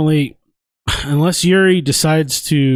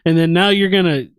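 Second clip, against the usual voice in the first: higher-pitched mock protest; Glover; 6 semitones higher than usual. Friend learns the Lambo isn't his, mock protest. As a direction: imitate a let-down friend pleading his case.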